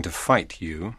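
fierce whisper; whisper yelling. A narrator's reading. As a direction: hiss the threat fiercely. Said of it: "he whispered fiercely".

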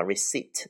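"receipt" with no P sound; silent P. Shown as a demonstration. Teacher shows learners the word receipt, P left silent. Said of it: "这个P不发音".

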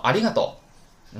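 ありがとう with the rise then fall; with proper pitch. Shown as a demonstration. Teacher shows ありがとう has a tune. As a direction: sing the tune of ありがとう clearly. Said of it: "有调儿啊".

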